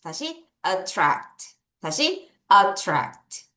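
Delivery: very slow pronunciation drill; teacher drilling attract slowly. Shown as a demonstration. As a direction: stretch it out for the students. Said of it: "얘 먼저 발음할게요".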